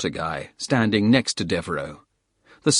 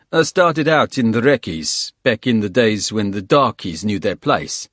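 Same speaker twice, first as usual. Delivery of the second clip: put-on South African accent; 4 dB louder than usual. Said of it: "South African accent".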